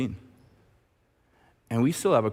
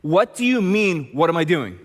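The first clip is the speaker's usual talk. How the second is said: louder, indignant comeback; heated player retort; 5 semitones higher, 5 dB louder than usual. Retold or imitated. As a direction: snap back as the annoyed player.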